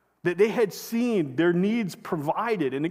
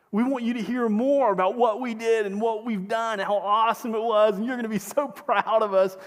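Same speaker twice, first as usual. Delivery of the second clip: higher, eager bragging voice; eager boasting; 4 semitones higher than usual. Retold or imitated. Disciples bragging to Jesus about their mission, eager and higher. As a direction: gush like kids showing off.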